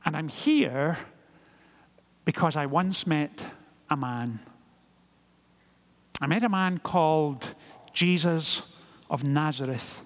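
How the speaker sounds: measured, understated testimony with pauses; lightly voiced apostle, patiently explaining; very gently, persuasively. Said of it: "very gently, very persuasively".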